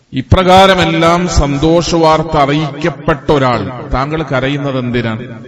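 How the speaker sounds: emphatic preacher retelling a story; impassioned preaching. Acted. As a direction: preach the dialogue with rising force.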